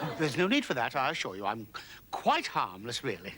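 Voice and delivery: low, soft, fading away; meek placating. Acted. Intruder assuring an angry man he is harmless, meek placating. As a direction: back off quietly, voice sinking as you go. Placates threatening stranger after blunder.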